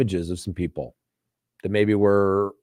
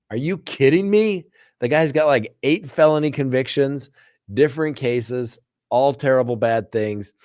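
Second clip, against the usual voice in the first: can't believe what you're hearing; exasperated protest; 4 semitones higher than usual. Retold or imitated. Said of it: "I'm like".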